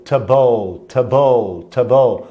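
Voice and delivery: "table" said as an unstressed-word ending, "tuh-bol", not like the furniture; reduced English ending. Shown as a demonstration. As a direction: drill "table" as "ta-bol", each one separate and firm. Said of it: "Pronúncia é comfortable". ("table" pronunciado "ta-bol", repetido com firmeza)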